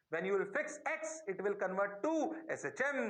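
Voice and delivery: slow, spaced-out delivery; slow repeat. Shown as a demonstration. Teacher repeats the key rule to students, slowly. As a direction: draw out each phrase for the class. Same sentence repeated for emphasis.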